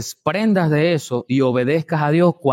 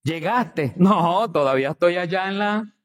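sarcastic. Retold or imitated. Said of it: "Eso es sarcasmo".

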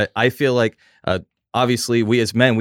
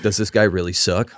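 laughing. Real, not acted. Laughing while quoting.

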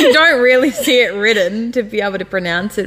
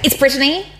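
imitating grandma correcting, higher pitch; mock-insistent grandma; insistent correction; 6 semitones higher than usual. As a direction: pointedly correct them, acted. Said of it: "she really gets on to it".

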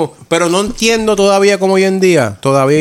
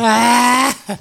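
high whistle-like squeal; shrill imitation of a whistle; whistle noise; 7 semitones higher than usual. Shown as a demonstration. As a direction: sound a high, drawn-out toot. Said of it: "tocar el pito ese".

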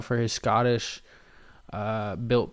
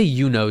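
you know said louder as a quoted habit; quoted phrase; 7 dB louder than usual. Shown as a demonstration. Mocking his own filler, punched out louder. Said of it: "I say".

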